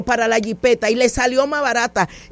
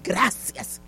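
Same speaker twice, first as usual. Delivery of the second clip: low, softened private thank-you; retold inward thanks; 6 semitones lower, 7 dB quieter than usual. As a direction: give thanks as if only inside. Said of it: "dije en mi corazón".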